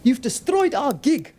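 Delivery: loud, high, slow angry snap; snapped. Acted. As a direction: bite the words off in anger. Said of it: "Talay snapped".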